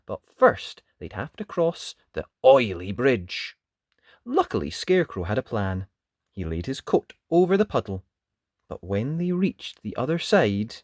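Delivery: expressive, measured story narration; children's storytelling. A narrator's reading. Narrator telling children of the crossing, animated storytelling. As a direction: read it to small children, building suspense.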